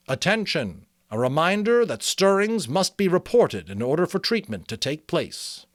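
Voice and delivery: a hammed-up community PA reminder; public address announcement. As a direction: announce it like the town speaker. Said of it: "the speaker mentioned it".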